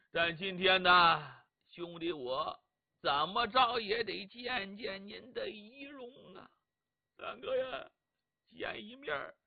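a touch of tearful grief, slowed; understated sorrowful lament; mournful farewell. Acted. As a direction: say goodbye to your brother, voice heavy. Cheng Yaojin mourns at the body.

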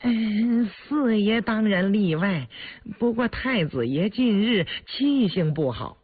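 high, pleading servant voice; cowed eunuch. A narrator's reading. Eunuch intimidated by the prince, anxiously pleading. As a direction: placate him in a high, servile voice. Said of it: "被胤禛威慑的眼神吓得一".

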